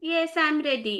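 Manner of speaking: flat, low-energy tone. Told to declare being ready for the class, answering with low energy. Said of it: "More energy".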